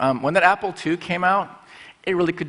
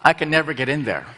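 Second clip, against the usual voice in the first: wistful laugh. Retold or imitated. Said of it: "that expensive restaurant fear".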